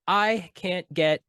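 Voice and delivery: slow, flat text-to-speech voice; robot narration voice. Retold or imitated. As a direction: read it like a TikTok auto voice. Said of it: "the automated narration voice".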